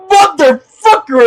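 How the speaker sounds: loud, high, drawn-out mock shock; startled curse. Guy startled by a silent car, high shocked yell. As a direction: yelp it as if jumping out of your skin. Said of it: "I swear that guy said".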